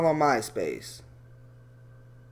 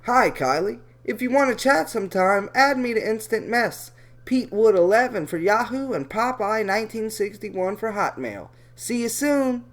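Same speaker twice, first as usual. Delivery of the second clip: Atlantic City voice; 3 semitones higher than usual. Retold or imitated. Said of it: "I'm just gonna be Atlantic City".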